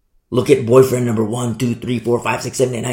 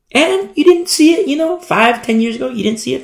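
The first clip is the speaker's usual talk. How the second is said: high urgent plea; 11 semitones higher, 3 dB louder than usual. Acted. Messenger pleads with girl.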